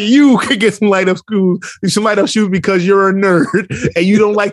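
imitated child's cutting comeback; sassy fifth grader. Student hits back at teacher, retold sass. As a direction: turn the insult back on him, amused. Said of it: "she got mad attitude".

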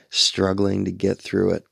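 chuckling through the words; laughing. Shown as a demonstration. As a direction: say it with a wry laugh. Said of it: "Isn't that a metaphor for life?".

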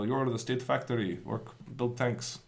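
put-on a weak, half-hearted Russian accent for Stalin, slowing down on the last words; barely-there Russian accent, clipped orders; bad Russian accent. Mimicking Stalin for the podcast hosts in a faint Russian accent. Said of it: "it's a bad Russian accent".

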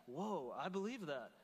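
slow, swooping "whoa"; drawn-out pretend realisation; mock astonishment. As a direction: act taken aback by your own belief. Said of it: "look at the things that you believe and go".

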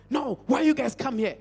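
agitated, forceful mock dismissal; imitated chasing away. Retelling a scared Sangoma turning away visitors, imitated agitated dismissal. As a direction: shoo them off, stumbling over the words. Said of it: "this Sangoma is chasing them away".

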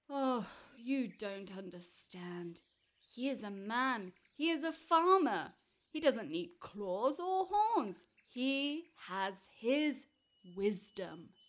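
slow, loud, emphatic buffalo voice; buffalo explaining. Acted. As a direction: explain it slowly and firmly to a giant.

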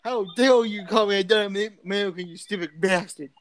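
hammed-up offended outburst; mock indignation. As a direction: act affronted by the insult. Acted quarrel over insult.

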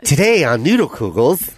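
lightly voiced episode intro; cartoon show announcer. Host spoofing a cartoon called Noodle Kugels, light announcer voice. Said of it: "Isn't that a cartoon?".

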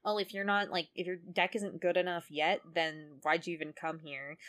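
a touch of snide condescension; Weevil, snide. Retold or imitated. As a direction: sneer mildly at a lesser rival. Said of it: "Weevil kind of snidely says".

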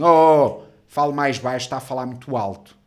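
loud mock reprimand easing off; gruff security guard. Guard hushing a man at social security, bossy. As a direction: call out like a guard, then tell him off. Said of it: "Vem um segurança, um macaco".

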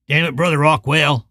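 gruff stranger's mild angry spit; spat out. Acted. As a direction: spit the line in angry contempt. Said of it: "the man spat".

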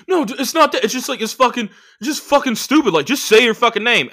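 imitated protest. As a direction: imitate someone objecting in exasperation. Voices other comic in retold argument.

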